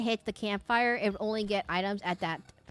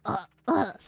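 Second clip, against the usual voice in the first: put-on old-man dog cough; 4 dB louder than usual. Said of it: "sounds like an old man every single time it coughs".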